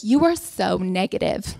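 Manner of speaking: slow, low-pitched mother impression; lightly voiced mother, each word drawn out; mother's voice. Mother scolds dad for being negative, slow mild reproach. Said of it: "you did your mother's accent wrong".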